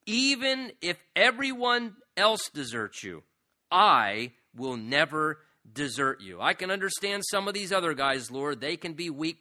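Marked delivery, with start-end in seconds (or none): 0.1-3.2 slow, loud, insistent vow; self-confident boast. Retold or imitated. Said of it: "with strong degree of self-confidence". 3.7-6.4 boastful vow. Retold or imitated. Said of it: "with strong degree of self-confidence".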